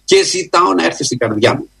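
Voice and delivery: preacher models a heartfelt plea for the listener; fervent sample prayer. Shown as a demonstration. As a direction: cry out to God for forgiveness, then settle. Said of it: "Να πεις".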